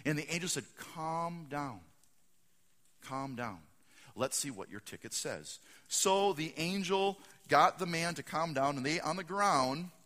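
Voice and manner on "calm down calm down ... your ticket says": soothing. Acted. Angel calming the upset fan, soothing and lowering. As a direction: talk an angry man down gently.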